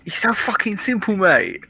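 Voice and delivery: high-pitched mock "mate" banter; mock British geezer. Playing up British slang for laughs, high mock voice. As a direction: put on a silly, high British lad.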